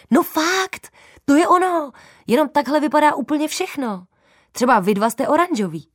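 bursting out the discovery, high and loud; excited girl. Acted. Girl explaining to her dad, high excited voice. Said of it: "vysvětlila jsem".

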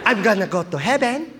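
lightly voiced grandma, rising at the end; a hint of an old grandma reassuring her grandson. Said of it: "What, Grandma?".

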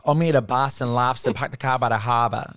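hammed-up Boston accent; put-on Boston twang; intense Boston accent. Shown as a demonstration. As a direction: imitate a thick Boston local. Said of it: "like, an intense accent".

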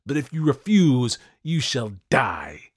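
high, loud, imperious tirade; shouted ultimatum, slowing to the final threat; furious shouting. A narrator's reading. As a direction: lay down the law like a raving tyrant. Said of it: "I shouted".

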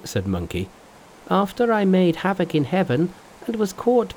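high, lively trickster voice; high cocky Monkey voice; Monkey's voice. Acted. Monkey boasts in story.

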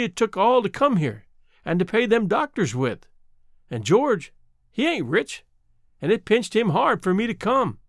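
put-on gently explain, old woman's voice; lightly voiced old mountain woman. Old woman explains her plight.

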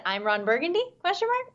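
puzzled anchorman reading out the punctuation; soft, with a high questioning lift at the end; Ron Burgundy. Retold or imitated. Co-host quoting a teleprompter blunder, puzzled anchorman. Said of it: "it was giving Ron Burgundy vibes".

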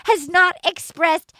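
high-pitched, hammed-up upset rant; mock tearful outburst. Co-host re-enacts Kat's crying interview about her birthday, mock tearful outburst. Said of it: "She starts crying".

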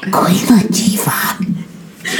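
slow, drawn-out whisper; trying to be quiet. Shown as a demonstration. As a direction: whisper the name very slowly. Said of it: "I'm trying to be quiet".

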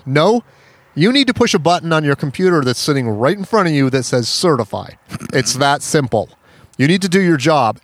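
mildly hammed-up bossy lecturing; imitated obnoxious insistence. Obnoxious helper telling the agency woman to certify, imitated insistence. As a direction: mimic a pushy woman laying down instructions. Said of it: "she's very obnoxious".

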